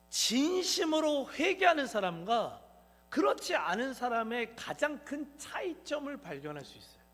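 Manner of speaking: ordinary delivery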